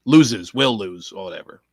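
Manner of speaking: ordinary talk, nothing marked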